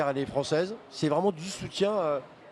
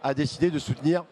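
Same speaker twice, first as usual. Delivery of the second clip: talking through a mouthful; words around a bite of food; mouth full. Real, not acted. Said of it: "Je parle un peu la bouche pleine".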